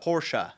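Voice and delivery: Porsche as POR-shah; another common pronunciation. Shown as a demonstration. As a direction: give Porsche a second syllable 'sha' and a hard r. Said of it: "what else people say is".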